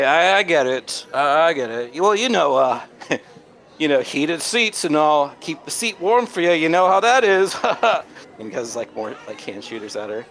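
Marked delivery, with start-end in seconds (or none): 0.0-7.6 much higher, louder cheesy charmer; sleazy flirt. Acted. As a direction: lay on the flattery thick and high. Marcel recovering from rejection.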